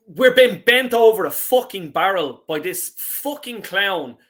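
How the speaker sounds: an angry fan venting, building to a shout; furious rant. Real, not acted. Fan raging at the club over the contract, angry shout. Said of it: "I might go on a rant".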